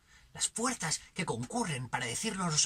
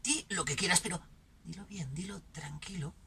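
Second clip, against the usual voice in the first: tranquil admonishing tone; 5 dB quieter than usual. Acted. Censor telling someone to speak calmly, hushed and tranquil. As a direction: drop to a soft, hushed "calm down" voice. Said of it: "mientras se diga en un tono tranquilo".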